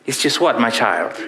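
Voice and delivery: lightly faked Irish priest; bad Irish accent. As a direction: prompt her gently in a poor Irish accent. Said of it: "this is the worst Irish accent you've ever heard".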